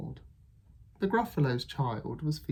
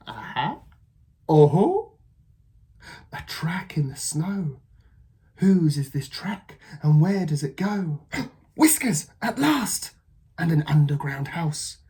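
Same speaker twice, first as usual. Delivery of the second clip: high, loud, gasping thrill; excited Gruffalo child; 5 semitones higher, 6 dB louder than usual. Acted. Child sure she found the mouse, high and thrilled. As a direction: gasp at the whiskers.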